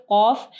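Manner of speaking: a full, heavy Qaf in कौफ; कौफ, the Q weighty and full. Shown as a demonstration. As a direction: say कौफ with a thick, heavy opening sound. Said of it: "कौ को heavy पढ़ना है".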